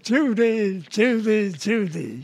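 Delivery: lightly done star impression; Cary Grant. Nightclub impressionist filling time on stage, lightly imitated film star. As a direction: repeat the name evenly, dropping on the last. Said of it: "I was doing Cary Grant".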